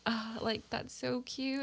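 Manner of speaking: quiet, softened little coo; tender, hushed reaction; soft cooing. Acted. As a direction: coo gently over something cute. Acting out wholesome viewing reaction.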